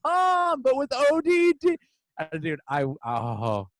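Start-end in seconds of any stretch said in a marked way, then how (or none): 0.0-1.8 much higher exasperated spelling; mock explaining. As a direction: spell it out patiently, mocking. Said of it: "he's like".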